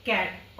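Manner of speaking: कैट spelled out slowly, sound by sound; teacher modelling कैट slowly; slow clear demo. Shown as a demonstration. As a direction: stretch कैट out for the class. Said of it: "इसको हम क्या pronounce करेंगे".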